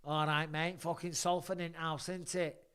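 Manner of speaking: mock broad Salford accent. Host greeting Salford, in a mock local accent. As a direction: lay on the Salford twang.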